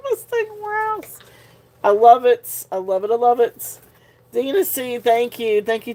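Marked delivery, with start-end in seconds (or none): 0.1-1.2 high, slow, giggly slip of the tongue; tickled, tongue-tied. Real, not acted. Tickled host stumbling over a name, giggling. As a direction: fight through the giggles. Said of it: "I'm getting so tickled and tongue-tied".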